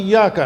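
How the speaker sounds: ایاک with the doubled ی held, "iy-yaak"; correct recitation. Shown as a demonstration. Imam showing the tashdid in ایاک. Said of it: "ایاک ہمیں پڑھنا چاہیے".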